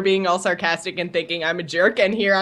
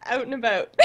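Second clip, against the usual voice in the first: Canadian accent; 3 semitones higher, 4 dB quieter than usual. Real, not acted. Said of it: "Oh, there it is".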